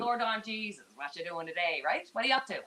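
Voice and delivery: a light Newfoundland accent and lingo. Shown as a demonstration. Showing the host how Newfoundlanders talk, lightly in Newfoundland accent. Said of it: "That's, uh, Newfoundland lingo".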